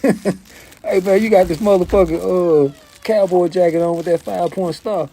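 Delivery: high, quick hammed-up Australian accent; mock Australian. Australian visitor questioning a local's cowboy jacket, high mock Australian accent. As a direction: play the Australian, chatty and pitched high. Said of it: "from Australia".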